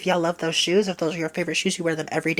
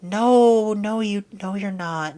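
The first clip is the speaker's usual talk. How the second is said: loud reassuring no; 3 semitones higher, 4 dB louder, slower than usual. Retold or imitated. Mock reassurance.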